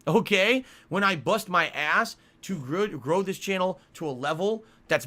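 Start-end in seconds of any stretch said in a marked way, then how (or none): 0.1-2.9 loud, slow, pressing each word; emphatic rant. Real, not acted. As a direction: hammer home the hard work. Heated rant about channel growth.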